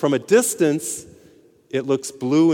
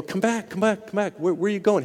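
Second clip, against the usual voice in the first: higher calling voice; higher, urgent call; 6 semitones higher than usual. Acted. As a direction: shout after the man heading out the door. Men calling after fleeing guy.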